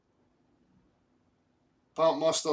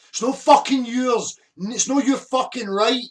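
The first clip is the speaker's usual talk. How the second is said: angry shout; 6 semitones higher, 5 dB louder than usual. Real, not acted. Furious rant defending his kids.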